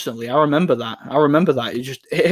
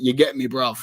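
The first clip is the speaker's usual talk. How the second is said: Hatman. Retold or imitated. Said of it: "he used to talk like that".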